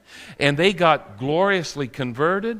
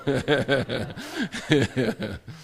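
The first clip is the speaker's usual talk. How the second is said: a real burst of laughter; laughing; 3 semitones lower, 4 dB quieter than usual. Real, not acted. Preacher laughing at his wife's joke. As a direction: laugh at the wife's teasing line.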